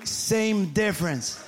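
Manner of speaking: slow, drawn-out mock shrug; dismissive answer. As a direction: stretch both words as an offhand retort. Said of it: "They tell you".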